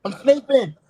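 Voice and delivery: high-pitched mock squeal of protest; squeaky, hammed-up panic; panicking rat. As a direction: play a rat dodging the tongs. Voicing rats fearing the tongs.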